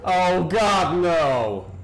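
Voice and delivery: sudden loud fright; startled cry. Real, not acted. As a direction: yelp it out in alarm. Monster appears, player startled.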